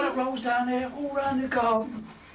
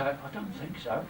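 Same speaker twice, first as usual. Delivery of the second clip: much softer, slow deadpan; dry sarcasm; 8 semitones lower, 9 dB quieter, slower than usual. Retold or imitated. Cafe customer answering a silly question, deadpan. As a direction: say it dead dry, mock-polite.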